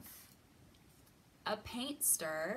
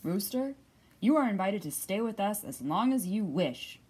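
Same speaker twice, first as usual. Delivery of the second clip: announcing father; 6 dB louder than usual. Acted. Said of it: "Father Badger announced".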